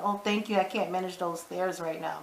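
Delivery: soft, feeble thank-you; acting helpless. Woman thanking the man who helped her sit, mock helpless. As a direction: lightly mimic someone playing helpless. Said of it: "she was acting all helpless".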